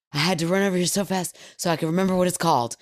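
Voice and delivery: put-on rushing, breathless kid; fast excited kid. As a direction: blurt it out fast.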